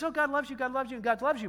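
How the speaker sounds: a hint of coddling softness; sweet milk voice. Milk talking to believers, lightly sweet voice. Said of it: "milk says".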